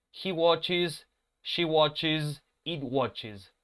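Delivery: "watches" said wot-chiz in each phrase; pronouncing watches. Shown as a demonstration. Teacher conjugating for students. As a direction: stress the "watches" each time. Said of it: "va a ser watches".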